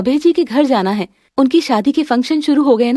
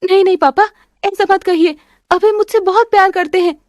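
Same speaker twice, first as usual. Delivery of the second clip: tearful denial; 6 semitones higher than usual. Acted. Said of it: "आस्था, रोने वाली क्या बात है?".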